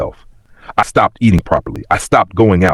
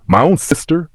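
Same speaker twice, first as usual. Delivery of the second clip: high-pitched, hurt disbelief; voice cracking; 9 semitones higher than usual. A narrator's reading. Betrayed woman confronting her younger sister, voice cracking. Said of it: "My voice cracked".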